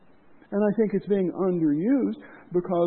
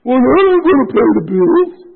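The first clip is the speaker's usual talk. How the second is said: mock objection; 6 semitones higher, 13 dB louder than usual. Mocking a reluctant church member.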